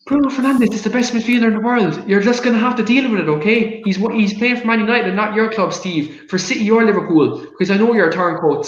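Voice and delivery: fired-up football rant. Real, not acted. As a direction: go off on one about your player. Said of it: "I love ending the video with a nice rant".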